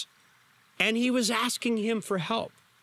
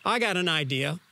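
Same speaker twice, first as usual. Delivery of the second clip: a sneering dare to Jesus; mock him with a snide, taunting edge; sarcastic, snide. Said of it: "it was sarcastic, it was snide".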